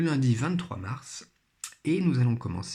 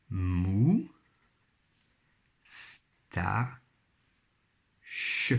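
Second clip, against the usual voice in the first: "mou, sta, ch" in three beats with long pauses; syllable by syllable; 3 semitones lower, much slower than usual. Shown as a demonstration. Teacher rebuilding moustache from three syllables, syllable by syllable. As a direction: isolate "mou", "sta" and "ch", one at a time. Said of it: "à chaque fois trois syllabes".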